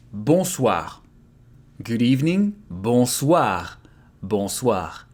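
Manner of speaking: bonsoir with nasal bon and swar ending; French bonsoir. Shown as a demonstration. Teacher modelling bonsoir for learners. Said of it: "Soir is the evening".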